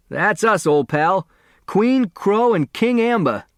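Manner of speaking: put-on a brash delivery boy slapping his pal's back. A narrator's reading.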